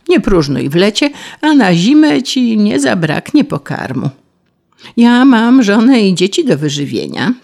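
a touch of a pompous mole, then tired excuses. Acted. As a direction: scold the idle grasshopper like a self-satisfied mole. Mole answers the grasshopper.

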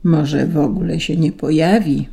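ordinary delivery

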